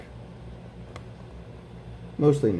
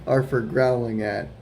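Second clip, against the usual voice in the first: gentle storybook read-aloud; reading to children; slower than usual. Acted. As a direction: read it like a bedtime picture book. Reading picture book aloud.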